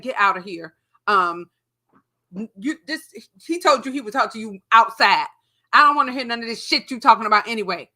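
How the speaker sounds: loud fast angry rant; angry shouting. Retold or imitated. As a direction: tell her off hard. Throwing ex out.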